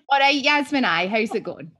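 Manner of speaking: Scottish greeting. Retold or imitated. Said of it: "and I'm like".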